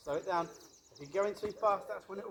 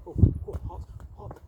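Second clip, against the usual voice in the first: hot potato yelps; 3 semitones higher, 10 dB louder than usual. Shown as a demonstration. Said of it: "I want to see if you can do this".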